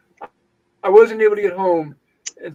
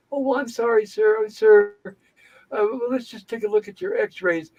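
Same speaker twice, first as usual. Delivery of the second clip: higher-pitched, hesitant apology; placating; 4 semitones higher than usual. Retold or imitated. Doctor trying to de-escalate an angry patient, mock placating. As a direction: imitate a flustered doctor smoothing things over. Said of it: "de-escalate".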